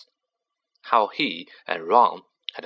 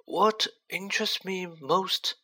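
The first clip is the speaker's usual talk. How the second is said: gentle; 10 semitones higher than usual. Acted. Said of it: "said Dumbledore gently".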